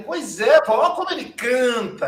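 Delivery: put-on a child laughing as he shows grandma his singing canary; excited laughing child. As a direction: giggle while showing off the bird. Child proudly showing the bird.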